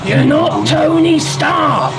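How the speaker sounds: loud, slow, drawn-out jeer at TONY STARK; disbelieving shout. Real, not acted. Streamer shouting at the defence secretary's clip, mocking jeer. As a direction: yell it at the screen, slow and mocking. Mocking the clip's drone stunt.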